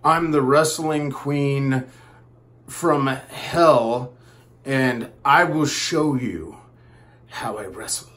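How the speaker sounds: lightly voiced boastful wrestler, slow; mock-menacing brag, drawn out slowly; wrestling queen. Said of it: "All of a sudden she's like".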